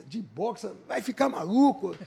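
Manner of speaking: father's disbelief rising to a loud scold on "maluco"; outraged father. Retold or imitated. Father scolds son about boxing.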